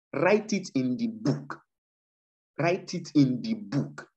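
"Write it in the book" spaced out slowly, word by word; deliberate, measured "Write it in the book", drawn out to sink in; slow emphasis. Real, not acted. Preacher urging listeners to note what God said, "Write it in the book" slowly emphasized. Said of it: "I'm, I'm emphasizing it".

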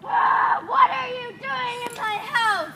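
angry shout. Acted. Cyclops finds intruders in house.

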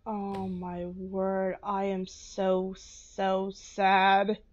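slow, hushed lament; sad. Real, not acted. Player mourning Astrid before the kill, slow and hushed. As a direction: let each word drag with grief. Grieving over Astrid's death.

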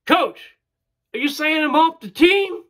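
high, loud anxious question; worried pitcher. Retold or imitated. Pitcher asking the coach if he is cut, anxious high voice. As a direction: plead with the coach. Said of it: "he says".

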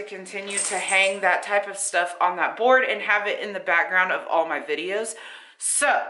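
breathless after talking long; out of breath. Real, not acted. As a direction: speak short of breath. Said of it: "I'm out of breath".

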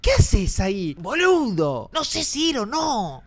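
alarmed, high drawn-out wail; panicked yelling. Real, not acted. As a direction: cry out in rising panic. Alarmed by figure in game. (gritando con pánico)

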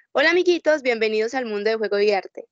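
bright squeaky sing-song welcome; cheery storyteller greeting to children; voz de lectora. Shown as a demonstration. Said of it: "pongo mi voz de, de lectora". (voz alegre de cuentacuentos para niños)

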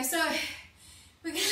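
breathless and winded; gasping between words; out of breath. Real, not acted. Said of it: "sorry, I'm so out of breath".

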